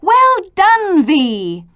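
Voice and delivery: high, loud praise; letters cheering V together; cheering chorus. Acted. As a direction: cheer him on with delight. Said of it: "The letters chorused".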